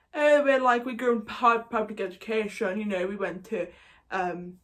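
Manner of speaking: lightly hammed-up posh Tory accent; a touch of caricatured upper-class English; mock posh English accent. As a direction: imitate a privately educated toff, half-improvised. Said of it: "they're probably either fifty plus or a Tory, you know, they're very, very".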